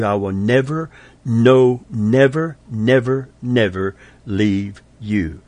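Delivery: "never" hammered again and again, the last "never leave you" slowed; emphatic repetition. Shown as a demonstration. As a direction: build the string of "never" like a drumbeat. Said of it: "to the fifth power".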